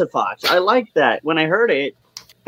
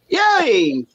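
higher, drawn-out yay; excited cheer; 6 semitones higher than usual. Real, not acted. Guest brought on by the host, excited cheer. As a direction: cheer at being introduced.

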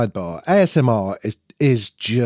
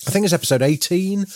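talking round a gummy; words slightly muffled by a sweet; mouth full; 3 semitones higher than usual. Real, not acted. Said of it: "I've got a C B D gummy in my mouth".

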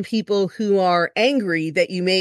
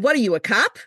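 slightly higher, lightly faked Long Island talk; put-on Long Island accent; 4 semitones higher than usual. Speeding driver to cop, put-on Long Island accent. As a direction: answer back as a fake Long Islander. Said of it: "I tried to keep the accent going".

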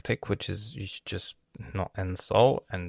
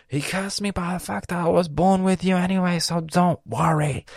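higher, louder smug retort; savage comeback; 10 semitones higher, 5 dB louder than usual. Retold or imitated. Brother firing back at his sister, smug. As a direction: deliver the burn with smug glee. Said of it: "I was like".

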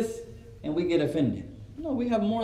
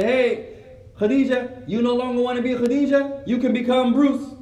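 slightly raised, emphatic coaxing; a touch louder, mock-encouraging pitch; mock persuader; 4 semitones higher, 4 dB louder than usual. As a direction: lightly act out someone talking a child round. Stranger persuading little girls, acted.

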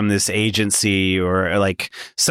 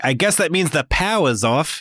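raised pitch, hint of a Kiwi accent; imitating Sam Neill's Kiwi slip; 6 semitones higher than usual. Host imitates Sam Neill's accent slipping in Jurassic Park, lightly mocking. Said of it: "He's like".

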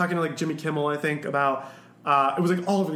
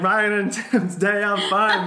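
drawn-out, loud sitcom catchphrase; raised, stretched-out mock announcement; playful catchphrase; 5 semitones higher, 6 dB louder, slower than usual. Loopy coworker riffing on Joey and Janice's day of fun, playfully drawn out. Acting out silly Friends catchphrase.

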